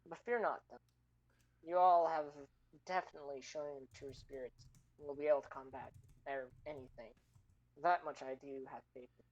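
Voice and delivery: gentle, measured mentor voice; wise old sage. Acted. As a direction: speak like a kindly ancient guide. DM voicing wise NPC speech.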